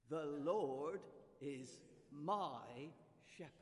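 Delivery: slow, loud "The Lord is my shepherd", "Lord" rising; confident declaration. Shown as a demonstration. Preacher urging the congregation to declare it, slow and loud. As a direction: proclaim it with conviction. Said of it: "So do it with confidence".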